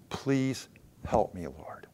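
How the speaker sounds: slow, hushed plea to God; soft plea. Acted. Believer praying to the Lord for help, soft plea. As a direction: let it sink low, almost to a whisper.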